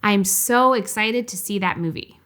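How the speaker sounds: natural ups and downs, lightly eager on "so excited"; lively statement intonation. Shown as a demonstration. Therapist demonstrates non-monotone statement to viewers, lightly lively. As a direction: say it with easy, engaged up and down. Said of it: "You can also notice intonation in a simple statement".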